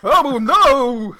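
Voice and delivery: high, loud laughing mock wail; hammed-up cry. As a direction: overact the despair, laughing through it. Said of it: "mock cry".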